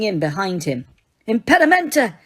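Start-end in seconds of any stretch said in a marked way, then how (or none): 1.3-2.1 high yelled jinx; yelled spell. Acted. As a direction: cast it with a yell, pitched up high. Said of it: "he yelled".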